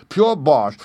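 the prisoner mocks the spell with a loud shout. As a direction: blast out Pure with scorn. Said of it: "and shouted".

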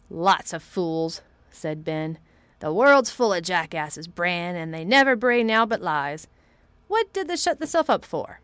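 lightly voiced old Yorkshireman, scornful. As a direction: scoff like an old gardener.

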